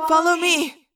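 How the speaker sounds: put-on young girl taking the lead; Cassie leading. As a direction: lead on firmly. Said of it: "Cassie said".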